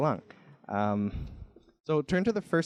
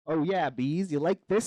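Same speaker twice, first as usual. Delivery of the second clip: lightly voiced flirty extrovert flower; show-off flower; 3 semitones higher than usual. Extrovert flower shows off to bees.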